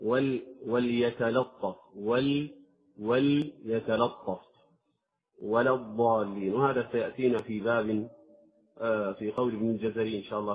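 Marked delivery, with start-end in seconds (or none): 0.0-4.4 وليتلطف بلام مرققة ببطء; رقق اللام في وليتلطف; light lam. Shown as a demonstration. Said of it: "في مثل مثلًا". (ترقيق اللام)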